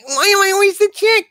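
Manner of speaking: very high, fast squeaky protest. Acted. Sidekick protesting being cast as Juliet, high voice. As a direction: complain in an indignant falsetto. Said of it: "you've got a higher voice".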